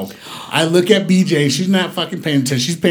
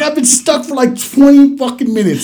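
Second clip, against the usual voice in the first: retold complaint; 9 semitones higher, 3 dB louder than usual.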